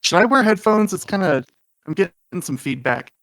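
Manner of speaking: muffled underwater mic sound; bad connection, sounds submerged. Real, not acted. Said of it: "It sounds like you're underwater too".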